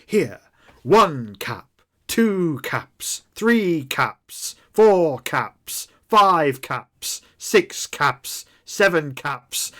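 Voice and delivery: a hint of a showy trader doling out coins; Professor Doctor's voice. GM as Professor Doctor paying the player, mock generous. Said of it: "He turns around and says".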